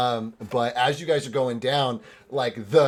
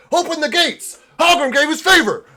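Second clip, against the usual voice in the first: distant shout; 10 dB louder than usual. Acted. Guards shouting from gatehouse.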